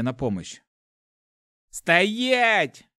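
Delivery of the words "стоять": high, loud guard's bark; raised, forceful order; barked command. A narrator's reading. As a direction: bark it to stop them dead. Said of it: "рявкнул страж".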